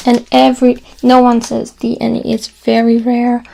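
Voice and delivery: emphatic. Real, not acted. Teacher insists to class nobody says ne. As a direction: hammer the point home. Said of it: "insisting nobody says ne".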